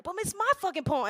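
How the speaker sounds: high, whiny-upset comeback; mock protest. Poet argues with self over lost poem, high mock protest. Retold argument with oneself.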